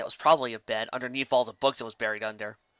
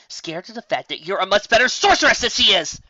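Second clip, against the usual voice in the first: rising, louder pep talk; eager self-pep; 7 semitones higher, 8 dB louder than usual. Acted. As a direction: puff yourself up. Flattering herself in mirror.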